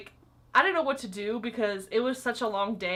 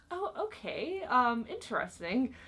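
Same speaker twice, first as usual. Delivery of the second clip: taken aback; 3 semitones higher than usual. Retold or imitated. Reacting to a threat.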